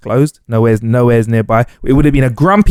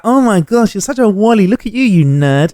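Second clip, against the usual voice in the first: higher, teasing mock taunt; mocking crowd; 7 semitones higher than usual. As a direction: imitate onlookers making fun of him. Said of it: "Everyone was like".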